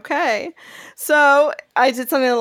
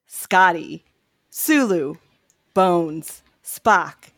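lightly done dramatic trailer narration; movie trailer voice; 2 semitones lower than usual. Shown as a demonstration. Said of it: "picture me having the voice of the trailer guy".

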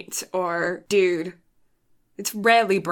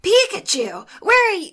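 higher, animated cartoon-hero voice; Ash; 9 semitones higher, 4 dB louder than usual. Co-host showing the cartoon boy voice, high and animated. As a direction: push it up high with lots of effort. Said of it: "But with Ash, it's more like".

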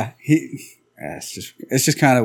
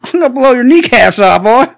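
loud mock hick threat; redneck threat; 9 semitones higher, 6 dB louder than usual. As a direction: threaten like a drunk redneck with a gun. Drunk redneck threat voiced.

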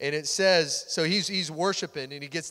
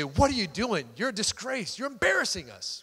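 scolding wife; 2 semitones higher than usual. Acted. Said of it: "That's what she's saying".

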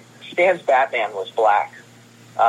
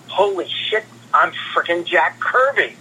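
retold giddy disbelief; 4 semitones higher than usual. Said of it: "And it was like".

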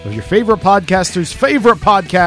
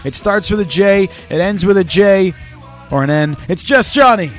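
hype introduction; 3 semitones higher than usual. Acted. Hyped introduction of co-host.

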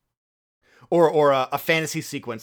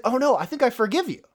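mock forgiving husband; 8 semitones higher, faster than usual. Husband mocking forgiveness in retelling.

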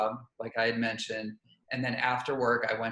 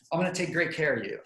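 flustered and rushed; 3 semitones higher, faster than usual. Shown as a demonstration. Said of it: "You can't be like".

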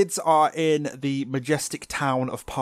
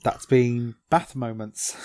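mock announcer; slower than usual.

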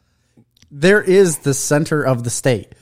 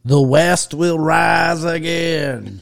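mock rallying cry; 5 semitones higher, much slower than usual. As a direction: proclaim it like a rebel leader.

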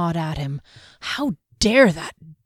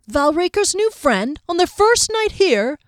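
incredulous higher guard voice, rising; mock disbelief, eager for more; surprised young guard; 10 semitones higher, 4 dB louder than usual. A narrator's reading. Second guard reacts to the gossip, higher and incredulous.

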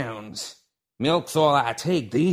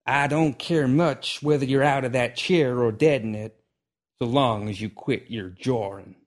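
annoyed; 4 semitones higher, 4 dB louder than usual. Acted. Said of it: "annoyance beginning to squeeze his".

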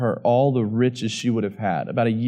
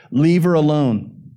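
raised, emphatic command; firm rebuke; 3 semitones higher, 4 dB louder than usual. Acted. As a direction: order them to back off. Jesus' rebuke read out forcefully.

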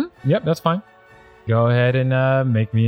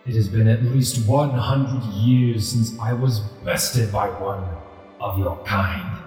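deep rumbling voice. Acted. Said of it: "a deep rumbling voice emanates from this ghostly tiger".

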